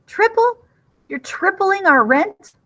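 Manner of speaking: high, slow, loud stunned question; shocked disbelief. Acted. Simone to landlord Ivan, stunned that her rent triples. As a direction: gasp it out as the news lands.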